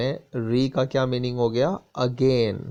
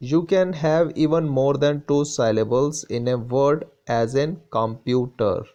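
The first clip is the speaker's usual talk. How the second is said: slow, deliberate English reading; textbook read-aloud; much slower than usual. Acted. Teacher reads the textbook to students, slow read-aloud. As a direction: read it out slowly for the class.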